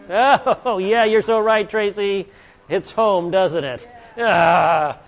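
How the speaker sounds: high, loud, hammed-up wince; mock groaning admission. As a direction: playfully groan as if it stings. Mock reaction to a convicting verse.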